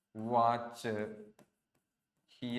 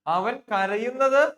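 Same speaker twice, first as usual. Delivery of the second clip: "കരയുന്നത്" said slow, higher and louder; stressed translation; 6 semitones higher, 8 dB louder, slower than usual. Shown as a demonstration. Teacher translating for students, punching "കരയുന്നത്". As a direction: lean hard on "കരയുന്നത്". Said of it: "teacher stresses the translation".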